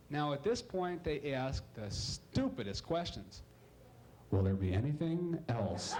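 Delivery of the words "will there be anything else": low, flat drive-thru drone; bored drive-thru worker. Acted. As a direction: drone it like a tired order-taker.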